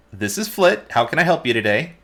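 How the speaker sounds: high mimicked woman's voice; Lorello. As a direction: parrot her voice in a rehearsed greeting. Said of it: "In Lorello's voice, almost like they've practiced this".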